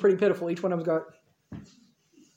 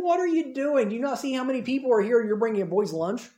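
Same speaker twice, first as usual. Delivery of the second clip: higher-pitched mock disbelief; 4 semitones higher than usual. Crowd making fun of Andrew and the boy, mocking. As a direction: scoff at him, starting high and easing down. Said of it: "probably making fun of Andrew".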